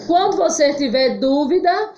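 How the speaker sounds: normal talking voice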